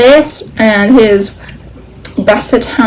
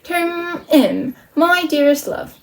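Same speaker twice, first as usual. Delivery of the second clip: higher-pitched mock British love letter; comic British accent; 7 semitones higher, 5 dB quieter, slower than usual. Malvolio reads a love letter aloud, comic British accent. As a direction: put on a British accent for laughs. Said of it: "say this in a British accent".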